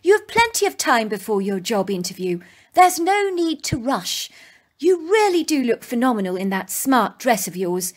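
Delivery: lightly voiced mother, gentle and encouraging; reassuring mother. Mother wishes daughter luck before interview, gently reassuring. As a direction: reassure her, unhurried. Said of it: "my mother assured me".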